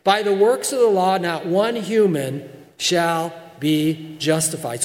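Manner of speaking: "not one human shall be justified" slowed and spaced out; weighty, deliberate declaration; emphatic, as Paul. Acted. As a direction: set down each word firmly. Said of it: "Paul's telling the Galatian people as strongly as he possibly can".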